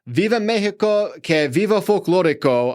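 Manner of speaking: put-on Spanish accent. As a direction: roll out the event name in a hammed-up Spanish accent. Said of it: "That was quite the accent for a European".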